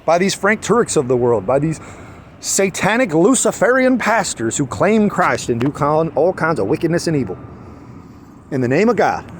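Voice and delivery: lightly imitated orator's cadence; Malcolm X. Denouncing pastors in a borrowed speech, mild orator impression. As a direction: carry on as a rousing speech-maker. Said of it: "As Malcolm X said".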